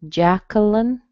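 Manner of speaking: "Jacqueline" as JAK-uh-lun, rising; three syllables, kuh not kwuh in "Jacqueline"; without W sound. Shown as a demonstration. Teacher repeating the second way, no W in "Jacqueline". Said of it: "without the little W sound".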